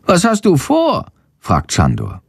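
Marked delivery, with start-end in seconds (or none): 0.1-1.1 high, squeaky little bat voice. A narrator's reading. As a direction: play the lively little bat Shandor, much higher. Bat asks. (hohe Fledermausstimme, aufgeregt erzählend)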